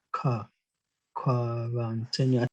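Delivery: quarantine slowly, as "ka-ran-teh-ne"; German K sound. Shown as a demonstration. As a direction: draw out quarantine the German way, K first. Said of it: "it's pronounced as a K".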